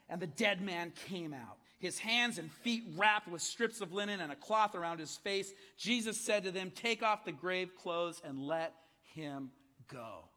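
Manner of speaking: lively Bible reading with voiced quotes; scripture reading. Pastor reading Lazarus story to congregation, expressive. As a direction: read the story aloud to the church. Reads John eleven aloud.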